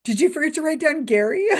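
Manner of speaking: teasing through a laugh; laughing question. Retold or imitated. Mocking the magician in thought, laughing. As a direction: ask it while cracking up. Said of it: "I thought to myself".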